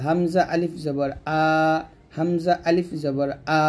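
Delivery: plain open আ from the throat, held long; hamza madd. Shown as a demonstration. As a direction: spell it, then stretch আ unpressed. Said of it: "এরকম".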